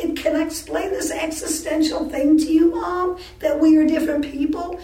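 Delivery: high, emphatic pleading argument; re-enacted exasperation. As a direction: replay an exasperated daughter reasoning with her mother. Exasperated argument with mother, retold.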